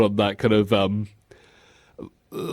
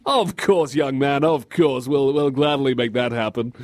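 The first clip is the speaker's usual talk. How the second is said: indulgent adult. Pretend. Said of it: "suggesting what you want for lunch".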